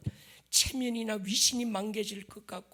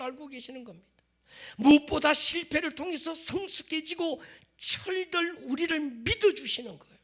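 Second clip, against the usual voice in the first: loud, raised, declamatory pulpit voice; impassioned preaching; 9 semitones higher, 9 dB louder than usual. Acted. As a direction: proclaim it with full conviction. Preaches at full force.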